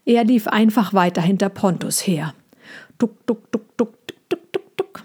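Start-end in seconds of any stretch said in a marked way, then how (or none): 3.0-5.0 soft, short hoofbeat syllables; leise Hufgeräusche. A narrator's reading. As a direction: imitate hooves stepping quietly, one after another. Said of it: "machten ihre Hufe hintereinander und möglichst leise". (leises Hufgetrappel nachahmen)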